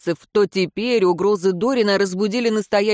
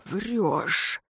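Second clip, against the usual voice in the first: a sudden hoarse, softer rasp; 7 dB quieter than usual. A narrator's reading. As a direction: croak it out in disbelief. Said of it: "произнёс неожиданно сипло".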